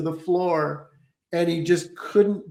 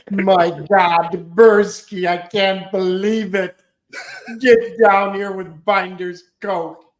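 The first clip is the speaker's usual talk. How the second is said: loud, high excited comic shouting; Joe Napoti impression; 5 semitones higher, 8 dB louder, slower than usual. Prankster voicing a comedian yelling for a friend. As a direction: yell it down like a manic comedian. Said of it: "I did this other comedian".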